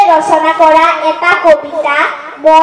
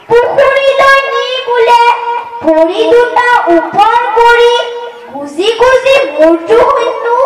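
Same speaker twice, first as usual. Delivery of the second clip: poem recitation. Acted. Child telling mother a dream of little ghosts, sing-song recitation. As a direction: recite it rhythmically, lilting up and falling at each verse end.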